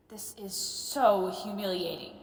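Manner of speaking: slow, mortified inner groan; humiliated. Acted. Professor after a forced apology, humiliated. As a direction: draw out the words in humiliation.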